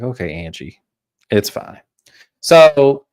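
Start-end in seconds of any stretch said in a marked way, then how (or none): 0.0-1.8 quiet, muttered under the breath; half-voiced aside, keeping it low; hushed aside to Angie. To Angie at dinner, a quiet muttered aside. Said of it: "I'm just looking at Angie like".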